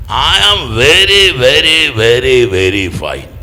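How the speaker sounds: loud, high start stretching every "very"; hammed-up imitation, each very drawn right out; emphatic old mother. Aged nun insisting she is fine, hammed-up emphatic imitation. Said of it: "ഒരു നാല് വരി പറഞ്ഞിട്ടൊരു ഫൈനും".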